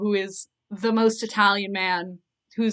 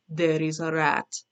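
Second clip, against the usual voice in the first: put-on slipping Russian accent; 3 semitones lower, slower than usual. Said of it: "he's suddenly Russian".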